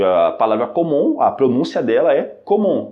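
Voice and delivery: "comment" said "komõ", final t silent; silent T demo. Shown as a demonstration. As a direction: clear French "comment" with no t sound. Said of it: "sem ler a letra T".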